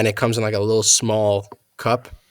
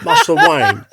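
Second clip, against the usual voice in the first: high, strained mock sob; hammed-up tearful butler; crying voice; 8 dB louder than usual. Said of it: "You gotta do it the crying voice".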